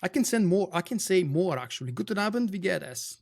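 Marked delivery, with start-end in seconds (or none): 1.9-3.2 German phrase. Shown as a demonstration. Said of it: "A little bit of a German".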